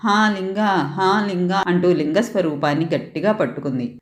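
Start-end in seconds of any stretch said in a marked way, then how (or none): 0.0-0.7 mild frightened cry, higher rise. Acted. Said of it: "గట్టిగా ఏడుస్తూ". 0.7-1.6 cling and call again, fading; crying out. Acted. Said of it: "గట్టిగా ఏడుస్తూ".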